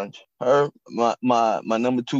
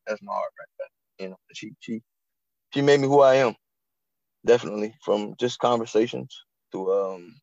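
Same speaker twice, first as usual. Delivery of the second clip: choked up. Real, not acted. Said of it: "I get choked up".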